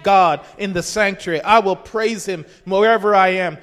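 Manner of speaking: resolute vow of praise; firm declaration. Shown as a demonstration. Preacher declares praise in the sanctuary, resolute. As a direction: proclaim it with conviction, punching the words. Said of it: "means it's not like".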